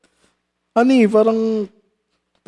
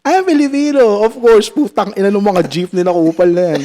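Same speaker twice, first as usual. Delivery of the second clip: mock rant; 3 semitones higher than usual. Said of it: "Naging rant".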